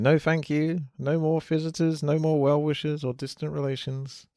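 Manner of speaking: lightly voiced fussy hobbit; hobbit refusing callers. Acting out Bilbo's lines from film.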